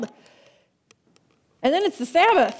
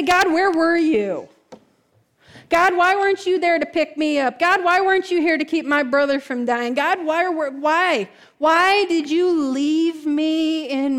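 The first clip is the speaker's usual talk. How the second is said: anguished cry to God; 3 dB louder than usual. Retold or imitated. Believer crying out to God at the breaking point, loud. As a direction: demand answers from heaven, breaking.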